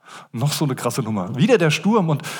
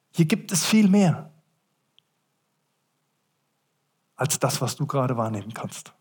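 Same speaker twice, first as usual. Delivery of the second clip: Gottes Stimme; 2 semitones lower than usual. Acted.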